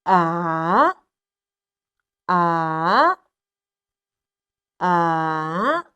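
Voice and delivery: low "A" dipping then rising; three "A"s with a U-turn pitch; third tone, repeated. Shown as a demonstration. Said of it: "It's kind of like a U-turn".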